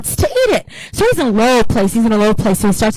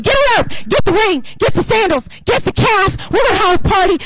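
higher, ringing commands for the feast; excited orders; 6 semitones higher than usual. Acted. Father calls servants to fetch robe and ring, excited. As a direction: call out joyfully to the servants.

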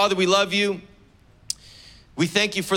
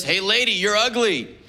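higher mock parrot squawk; 4 semitones higher than usual. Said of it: "in this squawking parrot voice".

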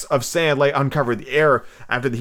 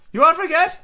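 put-on high, excitable old castaway; squeaky marooned sailor, eager and odd; lightly cracked high pirate voice; Ben Gunn voice; 14 semitones higher, 4 dB louder than usual. Ben Gunn's voice in the story.

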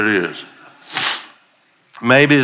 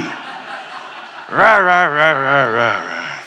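laughing mumble; 3 semitones higher, much slower than usual. Shown as a demonstration. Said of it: "do a little mumbling".

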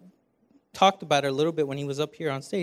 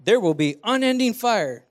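higher, louder hammed-up announcer; mock game-show announcer; 4 semitones higher, 6 dB louder than usual. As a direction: read the scratch card like an announcer.

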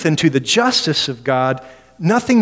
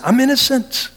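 higher, pleading insistence; protesting Job; 5 semitones higher than usual. Retold or imitated. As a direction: protest your innocence. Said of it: "he's innocent".

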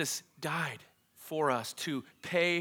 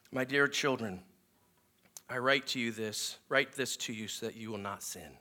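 softer, gentle fatherly reading; sweet tone; 5 semitones lower, 5 dB quieter than usual. Retold or imitated. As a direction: read it softly, like a tender letter to children. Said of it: "his tone changes. Very sweet".

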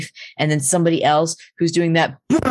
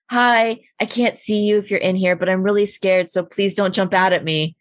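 hint of a scared little girl; 3 semitones higher than usual. Girl pleading with the tunnel actor, lightly voiced. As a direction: lightly voice the girl asking nicely. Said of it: "she was like".

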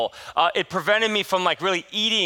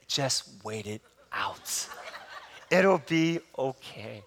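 slow, much softer, lower, laughing; laughing mock doctor; 7 semitones lower, 7 dB quieter, much slower than usual. Mimicking Anthony brushing him off, softly laughing. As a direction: chuckle through the doctor's lines slowly.

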